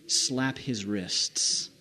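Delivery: slow, low and soft command; retold menacing order. Guard ordering Emily to punish Charlie, quiet slow menace. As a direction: draw it out quietly, an imitated stern order.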